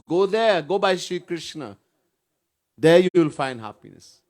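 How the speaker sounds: Maya's loud urging toward Krishna; urgent calling. Retold or imitated. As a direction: call out the direction firmly.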